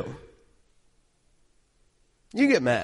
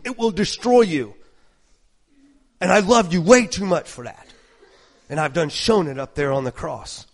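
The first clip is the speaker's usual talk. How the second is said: God speaking; 4 dB quieter than usual. Pretend. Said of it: "It's like".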